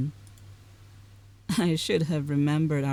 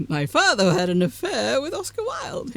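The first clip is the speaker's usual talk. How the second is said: excited outburst; 8 semitones higher, 6 dB louder than usual. Acted. Eager revelation to friend.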